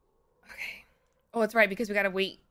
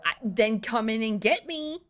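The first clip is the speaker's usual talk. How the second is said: sass talking. Real, not acted. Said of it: "I am sass talking".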